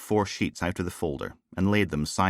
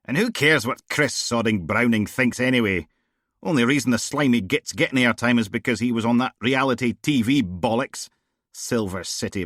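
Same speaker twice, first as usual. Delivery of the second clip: a hint of a blunt, raised-voice female DI; tossing off casual jibes, a little louder; lightly voiced brash boss; 5 semitones higher, 4 dB louder than usual. Bored boss grumbling to her officer, lightly voiced. Steele ranting at Logan.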